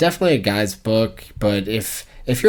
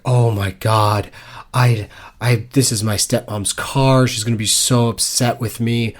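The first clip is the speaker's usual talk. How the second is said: fake crying; slower than usual. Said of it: "I was faking like I was on the verge".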